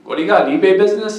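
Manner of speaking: high-voiced mock mail lady. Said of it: "So the mail lady".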